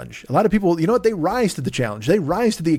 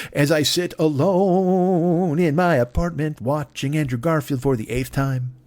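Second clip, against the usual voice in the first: mock forlorn; 3 semitones higher, slower than usual. Podcaster joking about sitting alone in his apartment, mock forlorn. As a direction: stretch "alone" into a long self-pitying wail.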